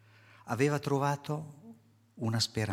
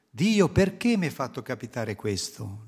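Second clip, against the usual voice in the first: loud complaint; 2 semitones higher, 7 dB louder than usual. Retold or imitated. Imagined complaint against God.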